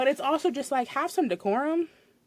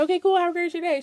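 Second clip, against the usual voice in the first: fake cheerful; 7 semitones higher, 4 dB louder than usual. Fake cheerful customer service.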